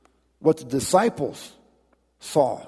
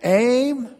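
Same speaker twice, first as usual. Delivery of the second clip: loud, much higher shouted command; barking orders; 11 semitones higher, 5 dB louder than usual. Acted. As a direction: snap the order to the squad. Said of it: "officer barking orders".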